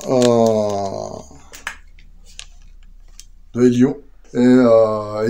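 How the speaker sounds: loud, carrying call downstairs; calling from another room. Real, not acted. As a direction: project so the others upstairs hear. Calls out from room below.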